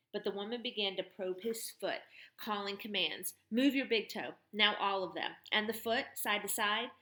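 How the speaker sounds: firm clear commands; brisk commanding woman. Acted. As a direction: direct like a field medic. Woman examines foot.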